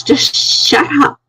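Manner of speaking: high-pitched, drawn-out mock yell; retold yelling back. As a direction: imitate her snapping back, high and stretched out. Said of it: "So she yells back at me".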